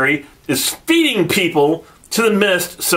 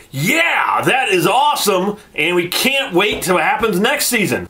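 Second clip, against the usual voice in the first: excited fan; 5 semitones higher than usual. Retold or imitated. Reviewer imagines his hyped finale reaction, excited cheer. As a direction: cheer it like a fan who can't wait. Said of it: "and I'll be like".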